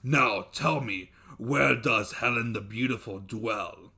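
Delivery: a king addressing his subjects; commanding dev. Acted. Dev questions his birds.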